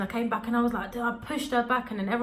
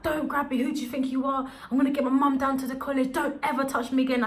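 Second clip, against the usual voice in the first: raised, heated telling-off, higher pitch; retold angry yelling; 5 semitones higher than usual. Student yelling at the teacher who grabbed her, heated. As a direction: snap back at the teacher, outraged. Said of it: "I started shouting at her".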